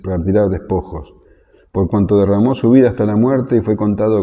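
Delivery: measured, solemn Bible reading; scripture reading. Acted. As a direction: read the prophecy with weight. Reads Isaiah 53 aloud.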